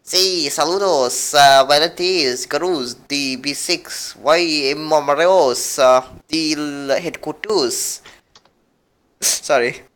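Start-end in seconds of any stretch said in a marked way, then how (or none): 0.0-8.0 slow, halting mock Mexican accent; attempted Mexican accent. Shown as a demonstration. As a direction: read slowly, trying a Mexican accent. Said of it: "can do a real Mexican".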